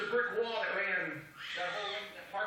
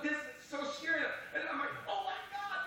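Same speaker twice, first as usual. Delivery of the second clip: retold freak-out; 5 semitones higher than usual. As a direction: replay your own panic, pitch climbing. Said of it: "I'm freaking out".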